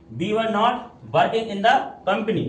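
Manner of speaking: very slow, word by word; deliberate dictation pace; slow reading aloud. Shown as a demonstration. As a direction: spell the sentence out for students. Teacher reads sentence for class.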